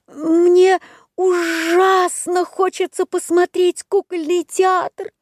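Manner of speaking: high tearful puppet plea; crying as he begs; through tears. A narrator's reading. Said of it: "сквозь слёзы сказал Буратино". (сквозь слёзы)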